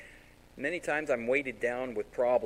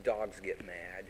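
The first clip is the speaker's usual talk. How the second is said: slow, low, softer retort; lightly voiced dad; 5 semitones lower, 6 dB quieter, much slower than usual. Dad corrects his mad son, slow low retort. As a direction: imitate dad's deadpan comeback slowly. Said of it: "And he'd go".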